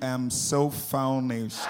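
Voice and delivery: drawn-out "famished" said as "vow-nesht"; mispronounced famished. Retold or imitated. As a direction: imitate her mangled "famished", slow and soft. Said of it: "You mean famished?".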